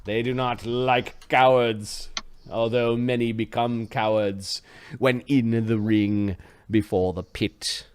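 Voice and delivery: slow, weighty scene setting, sinking at the end; game master narration. Acted. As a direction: draw it out like an ominous storyteller. Game master sets the arena scene.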